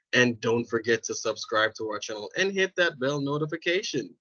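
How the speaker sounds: polished, formal outro read; customer service voice. Shown as a demonstration. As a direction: sign off like a polite service rep. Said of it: "This is my customer service voice".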